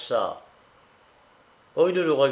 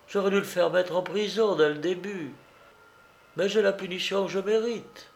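lightly voiced, higher young woman; a touch of remorse, pitched up; distraught young woman confessing; 4 semitones higher than usual. Young woman confessing her mistake to her companion, mildly distraught. Character recounts her story in dialogue.

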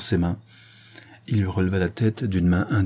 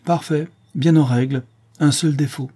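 higher, projected verdict; aloud; 7 semitones higher, 4 dB louder than usual. Acted. Horace examining the warrant for Béchou to hear, aloud. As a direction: announce it clearly so it carries through the door. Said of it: "prononça-t-il à voix haute".

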